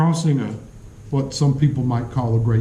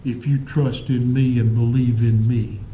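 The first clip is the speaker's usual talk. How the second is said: reassuring Jesus; 3 semitones lower than usual. Retold or imitated. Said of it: "We forget that he's saying".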